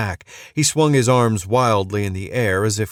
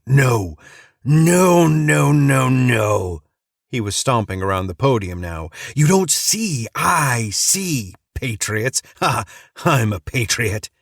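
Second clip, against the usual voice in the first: gleeful crazed rant, higher and louder; manic ranting preacher; 4 semitones higher, 3 dB louder than usual. Acted. Madman mocking the soldier, gleeful manic rant. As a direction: rave like a madman who loves his conspiracy.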